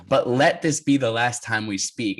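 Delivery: slow, deliberate final word; firm ultimatum. Retold or imitated. Racer cuts off contact with his rival, firm ultimatum. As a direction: lay it down slowly and firmly.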